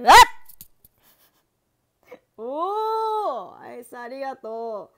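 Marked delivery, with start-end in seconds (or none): 0.0-3.6 excited cry. Real, not acted. Excited reaction to gift.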